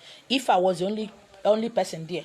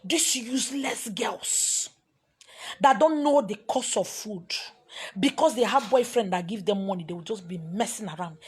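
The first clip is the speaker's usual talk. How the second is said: mock scolding woman. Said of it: "This Igbo woman insulted me".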